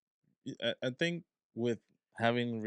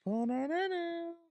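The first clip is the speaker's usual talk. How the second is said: surprised. Real, not acted. Reacting to the reveal.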